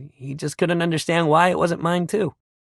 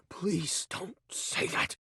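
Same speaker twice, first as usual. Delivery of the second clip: hurt plea; 13 dB quieter, much slower than usual. Acted. Hurt pleading after denial.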